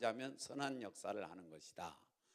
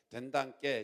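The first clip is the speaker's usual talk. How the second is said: Jeolla accent. Shown as a demonstration. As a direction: lead the crowd in Jeolla speech. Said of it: "전라도 버전으로".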